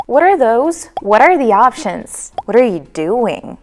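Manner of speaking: "What are" merged into "wudder"; linked "what are". Shown as a demonstration. Teacher gives example questions, linked "What are". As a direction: tap the t to join "What are". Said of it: "exchange it with".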